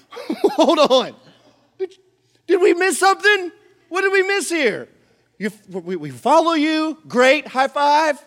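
high, laughing, baffled questions; confused laughing disciples. Acted. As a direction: laugh in disbelief at the news.

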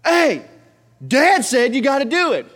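mock bossy sister; Ava relaying. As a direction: lean on dad's name. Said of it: "And Ava's like".

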